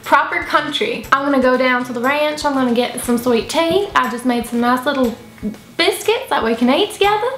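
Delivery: playful Southern country twang; country accent. Pretend. Two friends in an accent battle, proper country accent. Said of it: "We're gonna do an accent battle".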